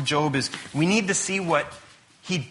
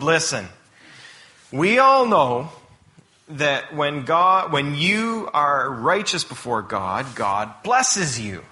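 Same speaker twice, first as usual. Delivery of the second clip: slow, emphatic lecturing; mildly lecturing friends; 4 dB louder, slower than usual. Retold or imitated. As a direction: spell it out slowly to Job, as his friends. Voices friends lecturing Job.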